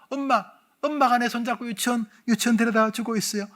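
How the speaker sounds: put-on retelling as a little girl in a regression session; little child voice. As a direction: speak as your small child self. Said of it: "이제 목소리 요래, 요래 됩니다".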